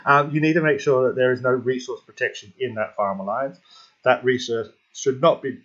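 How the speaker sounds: talking through hiccups; hiccuping. Real, not acted. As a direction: hiccups catching the words. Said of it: "now I'm hiccuping".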